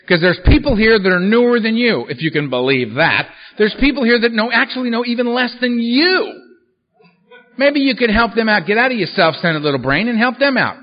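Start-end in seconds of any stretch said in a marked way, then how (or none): 0.1-2.1 firm, louder lecturing tone; scolding sponsor. Retold or imitated. 3.6-10.8 higher, louder lecturing tone; scolding sponsor. Retold or imitated.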